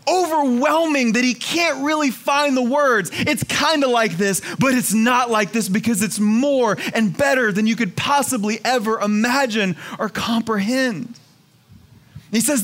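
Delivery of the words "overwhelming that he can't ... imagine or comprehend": higher and excited, searching for words; a speechless man fumbling for words; imitating John, overwhelmed. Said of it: "He's like".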